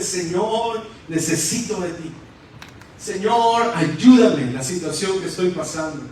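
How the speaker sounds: a touch of wailing, mildly acted; imitated tearful plea. Worshipper alone on their knees begging God, acted tearful plea. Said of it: "ha empezado a llorar, ha empezado a gemir".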